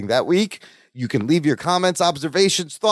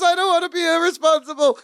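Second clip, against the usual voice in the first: mock Balky; 13 semitones higher than usual. Voicing Balky.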